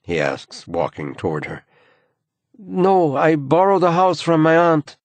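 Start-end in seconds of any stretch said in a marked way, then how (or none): 2.6-5.0 higher, light woman's voice. A narrator's reading. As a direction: voice the young woman. Woman character answers.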